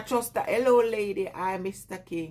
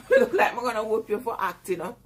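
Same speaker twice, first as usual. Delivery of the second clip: laughing; 3 semitones higher, 4 dB louder, faster than usual. Real, not acted. Laughing repeat of viewer comment.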